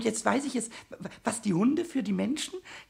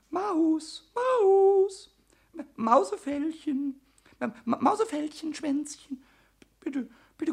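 long, drawn-out, high calls; coaxing call; 6 semitones higher, 3 dB louder, slower than usual. Acted. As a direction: lure it with stretched-out vowels. Now coaxing the hidden mouse. (langgezogenes Locken)

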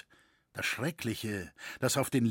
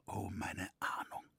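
softer whispered despair; whispered lament; 5 semitones lower, 12 dB quieter than usual. A narrator's reading. Roritzer lamenting his foreboding, whispered. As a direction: breathe it out in dread.

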